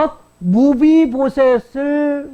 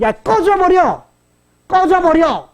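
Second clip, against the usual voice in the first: higher, slower mock order to get lost; acted scornful dismissal; 7 semitones higher, 3 dB louder, slower than usual. Shimei cursing the king, acted scornful dismissal. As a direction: send him packing with drawn-out contempt.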